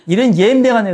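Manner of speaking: 전라도 억양으로 "옌병하네" 끝을 내리며 웃음 섞어; laughing mock Jeolla curse; Jeolla dialect curse. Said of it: "전라도 버전". (웃음 섞인 전라도 사투리 욕)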